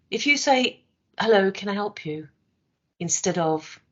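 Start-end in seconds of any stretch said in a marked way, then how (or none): 1.2-2.3 bright, welcoming "Hello, can I help you?"; friendly greeting. Shown as a demonstration. Trainer contrasting a welcoming customer greeting. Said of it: "Same words, different tone".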